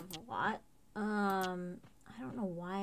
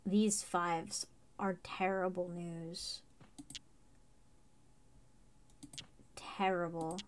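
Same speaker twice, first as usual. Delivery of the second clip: whispering; slower than usual. Real, not acted. Whispered grim verdict.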